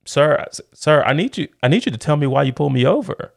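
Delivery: put-on teenage driver pressing the cop for a reason, high and fast; demanding teen. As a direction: insist on an answer, pushing. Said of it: "I was like".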